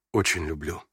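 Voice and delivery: тихо. A narrator's reading. Князь тихо признаётся генералу.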